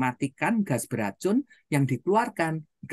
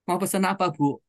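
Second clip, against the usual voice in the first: higher-pitched, gentler waitress taking an order; softer tone; 5 semitones higher than usual. Retold or imitated. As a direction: ask for the order politely, the temper gone. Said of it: "dengan nada lebih lembut dia bilang". (nada lebih lembut dan sopan)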